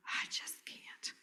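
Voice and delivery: barely audible, slow whisper; real low. Acted. Trainer imitating a dissociating child, real low and whispered. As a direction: breathe it out, drained and withdrawn. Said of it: "dissociator that's that real low".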